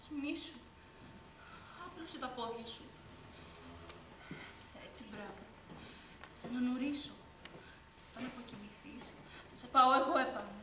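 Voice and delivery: rock her to sleep with the voice; soothing lullaby tone. Acted. (η αδερφή νανουρίζει τρυφερά)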